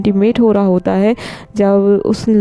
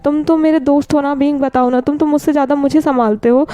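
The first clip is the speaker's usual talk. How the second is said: higher, pleading voice of a worried friend; coaxing friend; 5 semitones higher than usual. Acted. Friend on speakerphone begs Wing to talk, high and pleading. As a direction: coax him gently to open up, higher pitched. Niu Sheng coaxes crying Wing.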